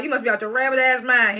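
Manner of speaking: mock outraged retort. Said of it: "He didn't say that neither".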